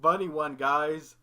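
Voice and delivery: goofy cartoon character voice, drawn out; hammed-up cartoon dimwit impression, lifted in pitch. Shown as a demonstration. Showing a doubting co-host the cartoon voice, hammed-up impression. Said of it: "I can do Ed's voice".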